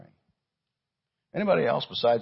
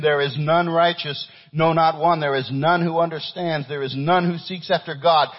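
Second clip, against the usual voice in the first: loud, raised-pitch scripture reading; forceful preaching; 6 semitones higher, 7 dB louder than usual. Acted. Preacher reading Romans to the congregation, forceful preaching. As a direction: drive each verse home.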